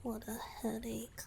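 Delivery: a worn-out whispered complaint; weary whisper. Acted. Tired merfolk whispers her headache to herself. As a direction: breathe it out, tired and hushed.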